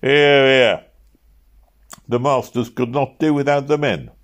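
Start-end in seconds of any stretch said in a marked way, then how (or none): 0.0-0.9 crowd approval. A narrator's reading. Workmen approving the speech.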